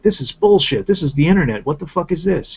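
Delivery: high, indignant outburst; mock outrage at the whole thing; outraged viewer. Subscribers in China reacting, indignantly. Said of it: "Even the people in China are like".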